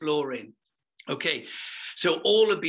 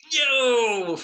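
sudden high, loud shout of joy; ecstatic cry; 8 semitones higher, 7 dB louder than usual. Real, not acted. Preacher cries out to the congregation in ecstatic joy. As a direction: burst out in holy excitement.

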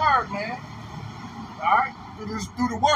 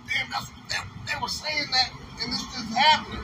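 hushed realization; 5 dB quieter than usual. Acted. Acting out sinners' dawning regret.

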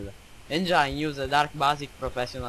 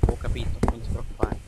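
whisper; 2 semitones lower than usual. Acted. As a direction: whisper it like a secret. Whispered aside to himself.

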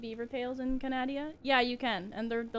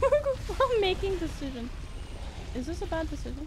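silly put-on voice; 6 semitones higher than usual. Silly voice in game.

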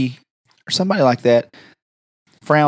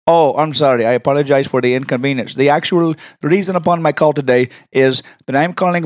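put-on, over-polite caller; prank caller voice. Apologizing to the receptionist, prank caller voice. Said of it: "Why can you talk like, exactly like that".

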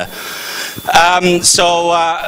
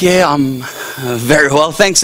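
imitating himself; 3 semitones lower than usual. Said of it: "the way I think I sound".

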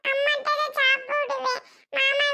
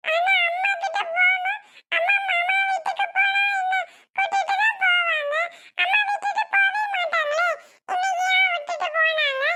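put-on raised, pleading child's cry for mom; whiny pleading; 4 semitones higher than usual. Child pleading with father to take her to mom, raised whiny cry. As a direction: beg to go to her mother, voice rising high.

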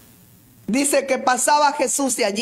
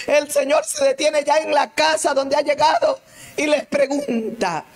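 ordinary talk

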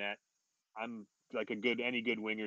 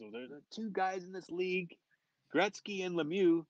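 coach's retold scolding, pitched up; mock yelling; 8 semitones higher than usual. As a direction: act out the coach's tirade without shouting. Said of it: "Pat starts yelling at me".

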